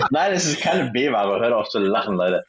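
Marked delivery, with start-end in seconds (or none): 0.0-1.4 laughing through the words; trying not to laugh; stifled giggles. Real, not acted. Lacht beim Dementi. (unterdrücktes Kichern)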